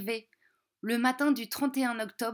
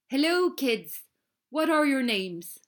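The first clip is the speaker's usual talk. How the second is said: a hint of a friendly conductor; lightly voiced conductor; 2 semitones higher, 4 dB louder than usual. Conductor greets the schoolchildren, a light conductor voice. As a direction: greet the kids as the ticket man. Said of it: "le contrôleur ... parlé en anglais".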